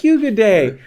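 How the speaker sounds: put-on high-pitched broken English, Chinese accent; imitated Chinese accent. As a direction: mimic the older neighbor's Chinese-accented English. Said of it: "'cause that's how she talked".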